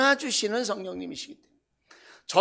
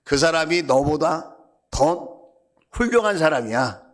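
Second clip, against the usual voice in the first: slow, weighty pronouncement; measured, firm divine answer; voice of God; 3 semitones lower, 4 dB louder than usual. Retold or imitated. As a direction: deliver the verdict slowly, word by word. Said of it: "그렇게 얘기를 하세요".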